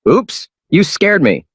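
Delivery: high, slow startled yelp; high, slow spooked cry. Acted. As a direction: jump and blurt it out, spooked. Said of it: "exclaimed in fright".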